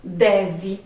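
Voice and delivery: "Deve" ending in an "ee" sound; final E as I. Shown as a demonstration. Teacher showing pupils the swapped vowel, "Deve" ending in I. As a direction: say "Deve" carefully, last E as I. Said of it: "Por I".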